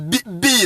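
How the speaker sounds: "B" said as English "bee"; rejected pronunciation. Shown as a demonstration. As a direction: say "B, B" as "bee, bee", the form to avoid. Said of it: "It's not pronounced".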